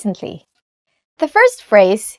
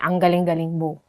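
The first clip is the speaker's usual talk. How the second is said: sarcastic; 5 semitones lower, 5 dB quieter than usual. Shown as a demonstration. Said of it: "you want to be sarcastic".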